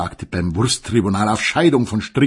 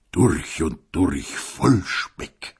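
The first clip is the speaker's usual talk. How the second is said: mild mock quote; 3 semitones lower, slower than usual. A narrator's reading. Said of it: "wie sagte die Dickgeselchte".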